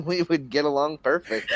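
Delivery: laughing, sarcastic assurance. Real, not acted. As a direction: say it with a sarcastic chuckle. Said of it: "Sounds like sarcasm".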